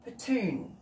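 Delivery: poutine said as "ut-TOON", with a falling tune; trying out poutine. Shown as a demonstration. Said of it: "I don't know how you say it".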